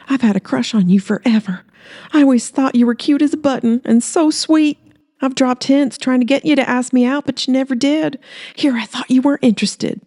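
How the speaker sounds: high, eager woman's voice; Holly, gushing. Acted. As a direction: pour out the confession, bright and high. Holly voiced confessing her crush.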